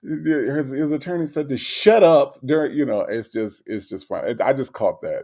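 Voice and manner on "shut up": "shut up" punched out louder than the rest; emphasis on "shut up". Retold or imitated. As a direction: hit "shut up" hard, mid-sentence. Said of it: "There's emphasis on "shut up".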